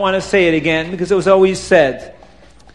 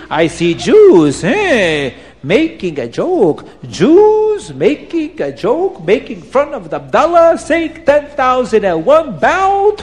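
put-on high, slow accented threatening rant; Abdallah fuming; 4 semitones higher, slower than usual. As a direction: threaten them like an insulted seller. Abdallah's angry rant continues.

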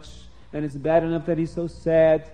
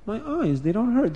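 higher, rising disbelief; growing amazement; 6 semitones higher than usual. Acted. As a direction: let the wonder break through. Repeats louder in wonder.

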